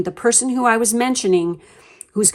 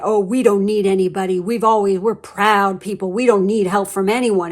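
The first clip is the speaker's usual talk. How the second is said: proud mother from Home. Retold or imitated. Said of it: "the mom is sitting there saying".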